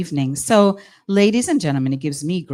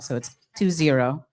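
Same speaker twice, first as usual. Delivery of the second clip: a touch of Guyanese accent, a bit lower; 4 semitones lower than usual. Shown as a demonstration. Emcee giving the podcast handle in a Guyanese accent. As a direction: let the Guyanese accent slip into the numbers. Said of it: "This is where the Guyanese accent".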